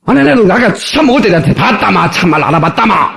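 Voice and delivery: scolding Gyeongsang dialect, high then dropping; brusque Gyeongsang boyfriend. Acted. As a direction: scold her in mock Gyeongsang gruffness. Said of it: "그 남자친구가 뭐라는 줄 아세요?". (경상도 사투리로 퉁명스럽게 타박)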